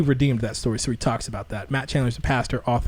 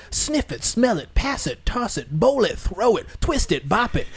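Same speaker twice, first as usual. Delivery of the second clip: mock hype pastor; 7 semitones higher than usual. Mimicking pastor's rose game.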